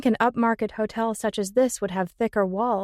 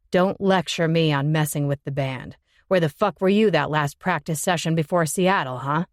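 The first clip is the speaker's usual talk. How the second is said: angry male voice; 5 semitones lower than usual. Acted. Ben angry at Jimmy.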